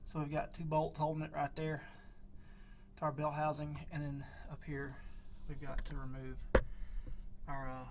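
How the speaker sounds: talking while lying under a truck; cramped on your back under a car. Real, not acted. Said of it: "I'm under the truck".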